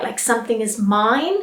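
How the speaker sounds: "mine" said with a long i like the word mine; wrong take, rhyming "mine" with wine; wrong "mine" ending. Shown as a demonstration. Teacher showing the common mistake, "mine" with a long i. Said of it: "Often I will hear examine".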